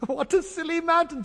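high, laughing voice. Acted. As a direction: giggle out the line. Children laugh at bearded mountain.

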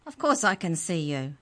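high squeaky impatient creature voice; a tiny sprite talking down to a boy. Acted. The book elf answers Trent, high and squeaky. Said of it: "The book's voice was high and squeaky".

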